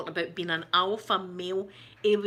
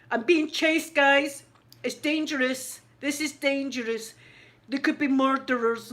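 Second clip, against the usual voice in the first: higher and louder, hammed-up scared streamer; mock panic; 5 semitones higher, 4 dB louder than usual. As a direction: overplay the fear as if being chased. Mocking Elvis's panicked livestream.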